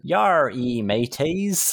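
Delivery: slow, badly faked pirate accent; posh person attempting pirate talk. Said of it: "posh people trying to put on a pirate accent".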